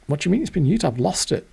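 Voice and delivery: put-on surprised girlfriend.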